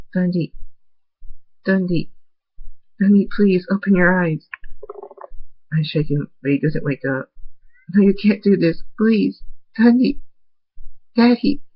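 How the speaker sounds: high, loud frantic pleading that keeps climbing; panicked screaming. Acted. Foal finding his dead father, screaming in panic. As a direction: scream at him to wake up.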